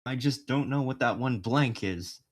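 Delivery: alien transmission voice, halting; garbled alien message. Acted. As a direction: read it like a broken alien signal. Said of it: "begin attempting translation".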